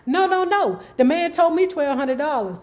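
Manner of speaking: mildly hammed-up insisting; imitated protest. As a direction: act out a wife's quick objection. Voices wife protesting over price.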